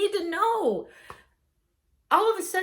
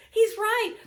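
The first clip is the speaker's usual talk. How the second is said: softer laughing repeat; 8 semitones higher, 3 dB louder than usual. Real, not acted. Wife conceding again, amusement fading. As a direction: let the laugh fade out.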